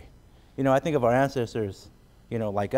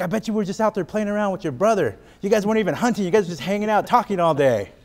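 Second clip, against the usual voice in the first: pitched-up, louder accusing wife; 7 semitones higher, 4 dB louder than usual. Retold or imitated. Wife accusing husband of goofing off, high and nagging. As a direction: nag him like a suspicious wife. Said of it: "He's like".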